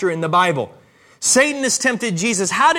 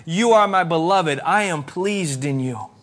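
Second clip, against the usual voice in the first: tender voice of God; 4 semitones lower than usual. Acted. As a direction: speak it gently over the listener like a blessing. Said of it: "hear the voice of God this morning speak over your life".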